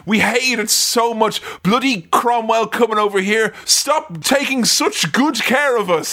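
sarcastic whinge in the locals' role; hammed-up grievance with heavy irony; mock complaint. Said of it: "They're like".

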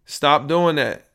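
loud, slow commands shouted at the machine; yelling at the meter. Real, not acted. Podcaster shouting at his recording levels, loud. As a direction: bark orders at the falling volume.

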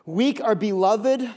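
slow dictation; said slowly. Shown as a demonstration. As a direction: read it slowly for note-taking. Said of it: "I'll say it slow".

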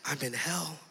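very quiet, low delivery; retold scream held back. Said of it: "I'm yelling and I'm screaming".

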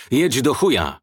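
swearing loudly at the stalling car; angry shout. A narrator's reading. Driver yelling at his stuck taxi, angry shout. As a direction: yell it at the engine, fed up. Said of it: "krzyknął".

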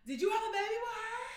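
loud, high accusing question; hammed-up furious demand; mock confrontation. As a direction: confront him in front of everyone. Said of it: "Carly Red's like".

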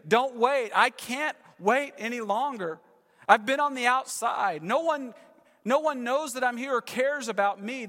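voiced outcast crying out for rescue; desperate pleading. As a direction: plead with God not to wait any longer. Man pleading with Jesus.

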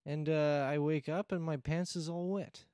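put-on broken English in a Borat-style Russian accent; lightly put-on Russian accent, bragging. Igor the Russian guest tells his karaoke night, Russian accent. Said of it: "your accent kinda trailed off".

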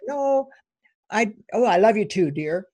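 a light, hesitant brush-off, tossed-away too, dear; offhand reply. Retold or imitated. Wife brushing off her partner's I love you, lightly offhand. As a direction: deflect it casually, not meaning it fully. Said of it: "I could have said".

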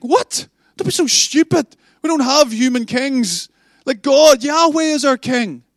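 high, loud shocked refusal; indignant disbelief. Acted. Gideon refusing the people's offer of a crown, loudly indignant. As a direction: scoff at the idea outright.

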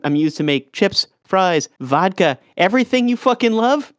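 offended vegetable boasting; offended potato. Pretend. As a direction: puff up like a proud potato. Potato voice defending itself.

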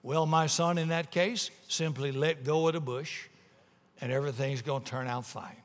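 composed, matter-of-fact reassurance; calm voice from heaven. Acted. The Lord advising tourist to let go, calm. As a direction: reassure him without any urgency. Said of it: "The calm voice came back from heaven".

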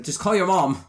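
high, laughing line; laughing mock quote. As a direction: squeak it out through a laugh. Quoting the show, laughing.

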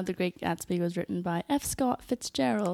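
light British accent; a touch of posh British English. Real, not acted. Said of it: "I said that in a British accent".

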